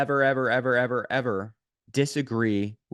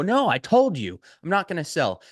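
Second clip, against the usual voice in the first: louder, higher, fed-up no; irritated refusal; 8 semitones higher, 5 dB louder than usual. Retold or imitated. Prospect snapping at a pushy agent, raised irritated voice. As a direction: snap back at the pushy caller, done higher and louder. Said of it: "And they go".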